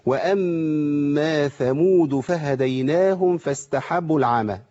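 slow, drawn-out tajweed recitation; Quran recitation demo. Shown as a demonstration. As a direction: recite it slowly, holding each sound. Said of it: "يعني لما أقول".

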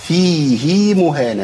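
slow chanted فيه مهانة, long final i on the ه; Quran recitation. Shown as a demonstration. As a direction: stretch the hi of فيه, melodically. Teacher recites the exception word.

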